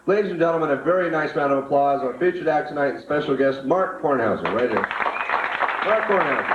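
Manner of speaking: big club announcer build to the name; emcee introduction. Acted. Club emcee calling the featured act up, rising announcer call.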